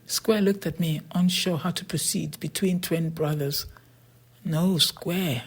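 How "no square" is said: firm, emphatic no to a friend; emphatic refusal. A narrator's reading. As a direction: put your foot down on no. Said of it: "I said emphatically".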